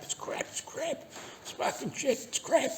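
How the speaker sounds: high, breathy mock whine, slow; mocking whiny complainer. Vlogger mocks the troll's nonstop complaining, high-pitched whine. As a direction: parody the troll's endless moaning in a squeaky voice. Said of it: "sit there and spiel on".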